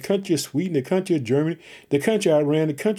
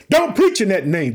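raised, forceful order from the authorities; forbidding command; 3 semitones higher, 5 dB louder than usual. Retold or imitated. Preacher voicing persecutors silencing early Christians, loud forbidding order. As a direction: bark the ban like the persecutors did. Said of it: "they had to make them shut up".

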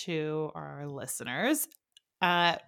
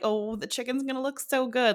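higher-pitched gushing bride; put-on daydreaming swoon; mock dreamy bride; 6 semitones higher than usual. Mimics a dreamy young bride.

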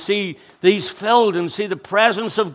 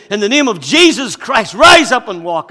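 commanding loud; 3 semitones higher, 6 dB louder than usual. Retold or imitated. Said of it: "and he says".

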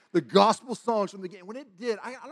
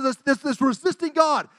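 high, loud imitated preaching; revival preacher; 9 semitones higher, 4 dB louder than usual. Evangelist addressing a revival congregation, imitated forceful preaching. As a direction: proclaim it like a fired-up evangelist. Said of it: "this man was up there preaching".

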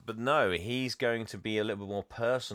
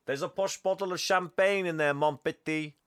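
much higher, oily creepy seducer voice; creepy seductive banker; 8 semitones higher than usual. Retold or imitated. Banker tempting the lady with champagne, high and sleazy. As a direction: purr it like a sleazy charmer. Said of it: "he's like".

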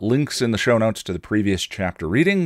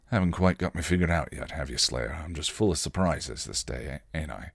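put-on lightly accented Spike, low and trailing softer; softly spoken line in Spike's slipped-in accent; accidental accent; 3 semitones lower, 6 dB quieter than usual. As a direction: let a touch of Spike's accent slip into a quiet aside. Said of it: "the accent only comes out by accident".

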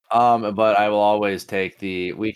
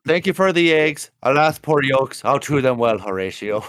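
hammed-up Shakespearean recital; mock stage-actor reading; theatrical dad joke; 5 semitones higher than usual. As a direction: deliver the pun like Hamlet. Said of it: "give us an actual dad joke".

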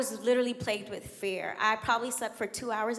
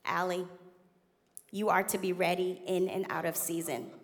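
loving pastoral; 4 semitones lower than usual. Retold or imitated. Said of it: "in his loving and pastoral way".

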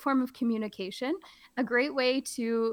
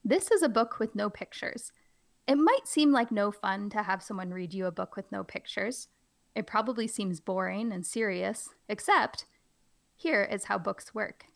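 put-on reading to children. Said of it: "I'm really trying to play it up".

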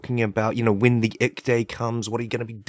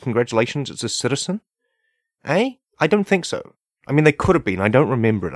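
indignant rant; 6 semitones higher, 4 dB louder than usual. Real, not acted.

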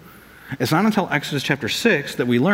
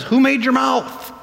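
slow God voice; 9 semitones higher, slower than usual. Retold or imitated. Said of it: "And God says".

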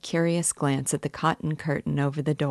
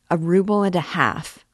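indignant, a bit louder outcry; cried out; 3 semitones higher, 5 dB louder than usual. A narrator's reading. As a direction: throw the price back at her in disbelief. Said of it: "cried the young man".

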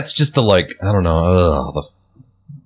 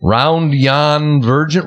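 quoting the carol line; 3 semitones higher, much slower than usual. Shown as a demonstration. Baffled friend repeats the carol line, slow and questioning. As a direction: ROUND YON VIRGIN drawn out slowly, ending on a rise. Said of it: "When they say the line".

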